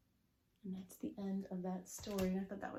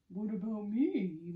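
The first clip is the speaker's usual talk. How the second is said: slightly louder mummy voice, lightly acted; a hint of a mumbling mummy; 7 dB louder, slower than usual. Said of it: "mumbles the mummy".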